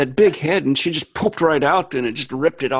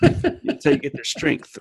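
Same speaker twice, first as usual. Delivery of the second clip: serial killer; slower than usual. Pretend. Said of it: "Now you really sound like a serial killer".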